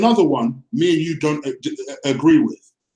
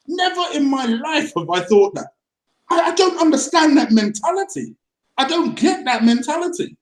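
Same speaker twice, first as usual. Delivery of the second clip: exasperated disbelief; 5 semitones higher than usual. Real, not acted. Angry rant about criticism.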